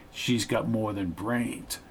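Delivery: slow, hushed insinuation; whispering. A narrator's reading. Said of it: "said Peter, whispering".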